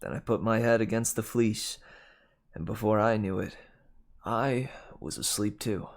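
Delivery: measured audiobook narration; story narration. A narrator's reading. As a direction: read the adventure aloud, clearly articulated. Reads the novel aloud.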